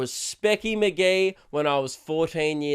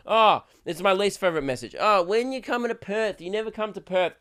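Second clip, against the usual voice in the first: lightly mocking a complaining fan, a bit higher; whiny fan message; 4 semitones higher than usual. Comedian mocking a fan's message, lightly whiny. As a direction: read it like a mildly whiny fan. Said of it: "here's the type of things that I get".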